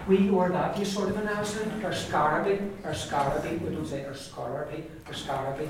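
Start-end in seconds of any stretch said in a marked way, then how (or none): 1.8-3.6 or Scaraby with an extra light vowel, scar-a-bee; Donegal pronunciation. Shown as a demonstration. Teacher explaining local speech, Donegal pronunciation. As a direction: give Scaraby its three syllables, scar-a-bee. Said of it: "that's the way it would be in Donegal".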